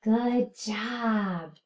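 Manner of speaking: whispered praise. Real, not acted. Praises class softly.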